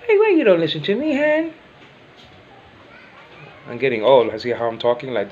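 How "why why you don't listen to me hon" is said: whiny plea. Retold or imitated. Pleading with wife, high voice.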